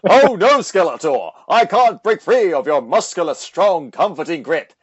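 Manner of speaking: hammed-up damsel cry, loud start; a loud, mock-helpless hero's plea; He-Man voice.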